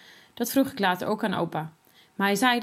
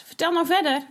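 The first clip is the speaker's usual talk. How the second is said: eager urging; 8 semitones higher, 3 dB louder than usual. A narrator's reading. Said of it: "roept Klaas".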